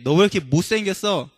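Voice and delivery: mock scolding. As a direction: play at telling someone off. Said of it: "이렇게 꾸짖지 않으셨어요".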